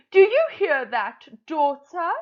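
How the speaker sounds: high, eager, pushing mother crow; impatient Madam Crow. Acted. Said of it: "I'm going to put on a voice".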